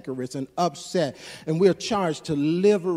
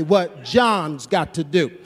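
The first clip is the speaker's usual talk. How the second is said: blunt Jesus paraphrase, mild edge; 2 semitones higher, 3 dB louder than usual. Retold or imitated. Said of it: "that's the K Ray version of it".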